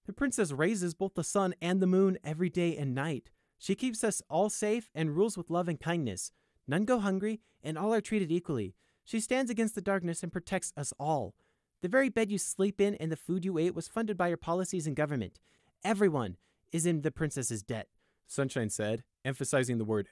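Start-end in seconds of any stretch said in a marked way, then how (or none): 0.1-6.3 devoted guard. A narrator's reading. 6.6-8.8 sincere loyal guard, higher voice; earnest and assured, falling to a close; earnest praise. A narrator's reading. 9.0-17.9 devoted guard. A narrator's reading.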